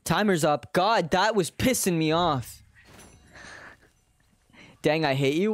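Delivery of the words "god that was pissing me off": ordinary delivery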